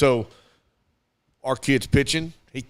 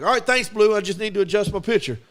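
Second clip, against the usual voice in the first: polite fake calm; 5 semitones higher, faster than usual. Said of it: "That's me arguing. Without arguing".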